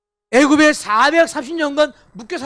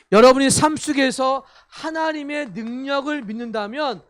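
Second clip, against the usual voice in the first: normal talking voice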